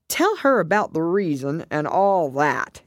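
lightly voiced turtle passing the task on; Mock Turtle. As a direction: hand it over in a lightly acted turtle voice.

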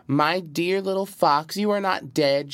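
wailing. A narrator's reading. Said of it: "she wailed".

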